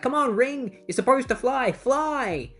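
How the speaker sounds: high, desperate urging; mock panicked pleading. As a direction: plead for help mid-fall, pitched high. Falling Boston pleads with ring.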